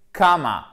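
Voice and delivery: "comma" as KAH-ma, falling; long open vowel. Shown as a demonstration. Teacher gives the English word for virgule, long open vowel. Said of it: "c'est plus proche du A".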